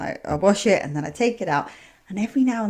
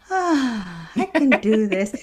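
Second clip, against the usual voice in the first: relief; much slower than usual. Retold or imitated. Imagined relieved listener of old shows.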